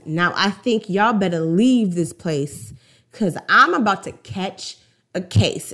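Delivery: delicately delivered mock warning; a restrained, veiled threat; passive-aggressive. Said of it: "so much passive aggression".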